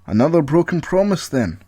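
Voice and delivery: rising angry warning, loud at end; angry threat. Acted. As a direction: snap the threat after him. Paul threatens Colin through door.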